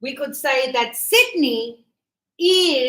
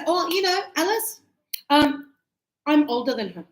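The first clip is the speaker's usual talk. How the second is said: casual; 3 semitones higher than usual. Shown as a demonstration. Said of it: "Than to say".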